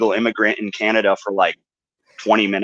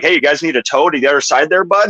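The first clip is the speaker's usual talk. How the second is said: lightly imitated friendly Canadian Mountie; Canadian nice. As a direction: offer help with a hint of Canadian accent. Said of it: "but Canadian nice".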